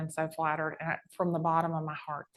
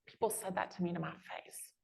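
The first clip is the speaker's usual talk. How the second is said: whispered aside; 6 dB quieter than usual. Real, not acted. Hurt aside about critics.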